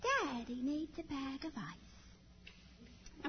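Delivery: put-on slow, small-child voice; little boy voice. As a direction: play the toddler delivering news innocently. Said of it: "he says".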